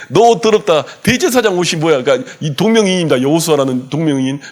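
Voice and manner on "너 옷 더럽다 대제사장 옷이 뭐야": mocking devil. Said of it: "이렇게 놀리는 거예요".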